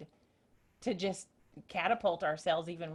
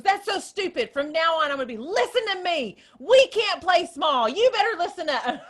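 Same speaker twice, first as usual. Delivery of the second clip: high and loud, fired up and insistent; imitating a friend laying down the law, thrilled; hyped-up friend; 8 semitones higher, 9 dB louder than usual. Friend telling Rhonda to stop playing small, loud and hyped. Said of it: "She was so excited and so hyped up".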